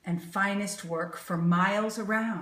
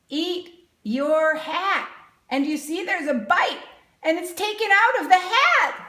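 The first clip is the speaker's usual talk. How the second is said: higher and louder, giddy at the silly sign; delighted; 8 semitones higher, 7 dB louder than usual. Acted. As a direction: laugh it off in amazement for the kids.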